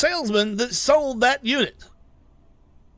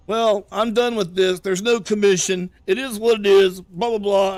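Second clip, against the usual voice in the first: mock shout; 5 dB louder than usual. Boss ending the argument loudly.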